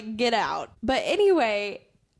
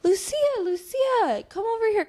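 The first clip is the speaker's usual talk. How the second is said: yelling across the cafe; 10 semitones higher than usual. Retold or imitated. Old men calling the barista from their table. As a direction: call her name over the noise. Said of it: "They're over there yelling".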